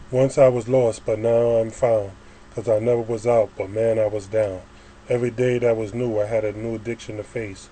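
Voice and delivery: rhythmic spoken-word verse, line openings hit harder; poem recitation. Acted. Poet testifies to being born again, reciting. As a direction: recite it firmly, leaning on each rhyme.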